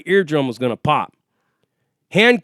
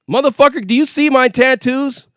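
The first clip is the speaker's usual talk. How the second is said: higher-pitched, indignant challenge; retold indignant retort; 6 semitones higher than usual. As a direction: act out talking back to a cop.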